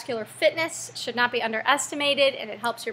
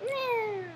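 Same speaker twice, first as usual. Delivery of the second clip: dismissive "eh"; 10 semitones higher, 6 dB quieter than usual. Shown as a demonstration. Voicing how little negligible is.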